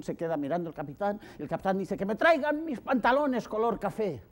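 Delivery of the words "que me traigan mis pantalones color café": higher, brave-faced command; captain's order. Acted. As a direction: deliver the order deadpan proud. (el capitán pide los pantalones, agudo y digno)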